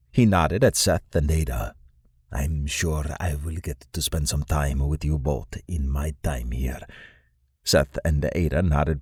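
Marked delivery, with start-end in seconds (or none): 2.3-6.8 lightly voiced stately lord; Lord Noskov. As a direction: speak as an old acquaintance, slightly lowered and softened.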